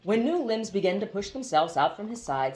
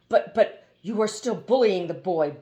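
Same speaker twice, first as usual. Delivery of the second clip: a touch of indignant protest, louder; furious protest; 6 dB louder than usual. Acted. Hoopoe protesting to the water genie, mildly furious. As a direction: sputter it out in mild outrage. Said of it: "expostulated furiously".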